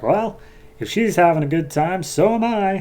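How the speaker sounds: lightly voiced Strife. Strife taunting Wonder Woman.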